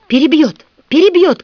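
high, loud alarmed cry; screaming. A narrator's reading. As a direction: shriek it as the nose breaks. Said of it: "кричала Милли". (громкий высокий испуганный крик)

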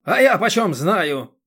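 slow, loud, high bark; a rough man barking at the old woman. A narrator's reading. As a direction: bark it back at her. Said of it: "гаркнул Юрий".

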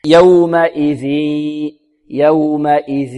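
oral hamza and ذ in يومئذ, nasal hum only after; correct ghunnah. Shown as a demonstration. Teacher modelling recitation, clean ذ then ghunnah in يومئذ. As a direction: hold the final hum of يومئذ in the nose. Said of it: "وبعد ذلك في الغنة يكون هناك صوت من الخيشوم".

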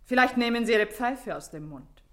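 high, pointed reprimand; indignant, high-pitched order; haughty rebuke. Acted. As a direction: put the visitor in his place. Woman rebukes the intruding policeman.

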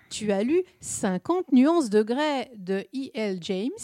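slow French with an English accent. Shown as a demonstration. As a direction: read the title in a heavy English accent. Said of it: "Je fais ça avec la, l'accent anglais".

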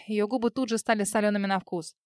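usual speaking voice

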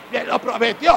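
shouted mock complaint; mock insistent yell. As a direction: yell it like a stubborn believer. Dead believer still insisting. (queja gritada en broma)

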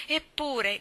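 high, loud anguished cry; cried out. A narrator's reading. Mally cries out to Herr Sörensen in despair. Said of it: "gridò".

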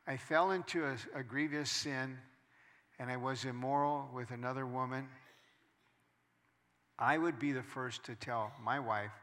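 ordinary delivery

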